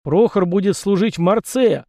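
half-shouted. A narrator's reading. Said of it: "почти выкрикнул я".

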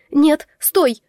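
alarmed shout to stop him; cry out. A narrator's reading. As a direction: blurt out a desperate stop. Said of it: "вынужденно вскрикнула".

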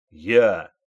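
loud, sharp barked answer; barked reply. A narrator's reading. Private barks his answer at the sergeant's order. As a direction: snap it out like on parade. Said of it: "рявкнул Кузнецов".

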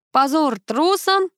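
slow, high, drawn-out cry of scorn; loud cry. A narrator's reading. The crow shames the hiding pets, crying loud. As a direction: shout it down at the cowards from above. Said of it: "С громким воплем".

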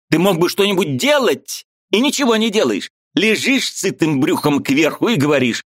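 high, eager voice of a Ukrainian friend; lively high-pitched friend arguing; Mikhalevich's voice. A narrator's reading. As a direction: play the excitable friend up high. Mikhalevich ranting.

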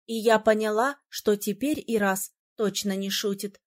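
ordinary delivery, nothing marked

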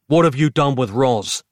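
yell. A narrator's reading. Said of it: "Nick yelled".

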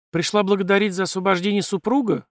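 ordinary talk

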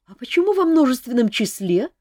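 high, loud teasing question; smiling. A narrator's reading. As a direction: ask it with a smile. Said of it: "улыбнулась Ольга".

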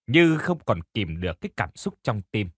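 ordinary delivery, nothing marked

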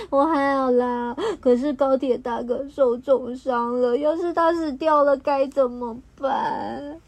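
a little crayon fighting back tears; tearful. Acted. Xiao Hei worried about the train, mildly tearful. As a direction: voice thick with tears, mildly sobbing. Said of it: "小黑边哭边说".

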